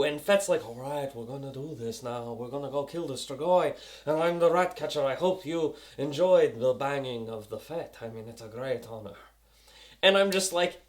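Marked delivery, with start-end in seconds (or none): 0.7-9.2 low rat-catcher character voice; put-on lower voice, mock solemn; imitación de Fett.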